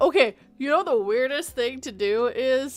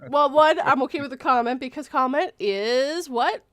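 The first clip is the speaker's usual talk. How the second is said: louder, higher comeback, ending on a question; animated retort; 3 semitones higher, 5 dB louder than usual. Retold or imitated. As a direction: quiz them with a raised, emphatic voice. Animated imagined retort to commenters.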